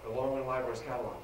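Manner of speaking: trailing echo of the phrase; fast, fading repeat. Shown as a demonstration. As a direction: let "no longer in library's catalog" fade quickly. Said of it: "repeated for emphasis".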